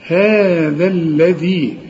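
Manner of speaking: هذا الذي slowly, tongue between teeth on the dhal. Shown as a demonstration. Teacher shows students the dhal. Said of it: "طلع لسانك".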